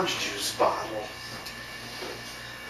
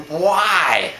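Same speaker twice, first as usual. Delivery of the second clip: higher, drawn-out incredulous question; mock baffled; 6 semitones higher, 4 dB louder than usual. Protesters answering the heckler's threat, mock baffled. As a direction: act out disbelief, pitched up.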